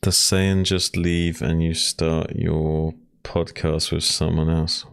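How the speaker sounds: ordinary talk, nothing marked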